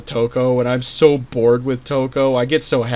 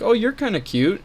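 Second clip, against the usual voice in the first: pitched-up flirty voice; high flirty; 10 semitones higher than usual. Retold or imitated. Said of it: "I was like".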